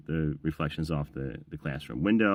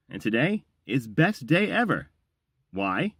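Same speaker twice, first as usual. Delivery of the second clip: excited; 8 semitones higher, slower than usual. Acted. Excited announcer opening.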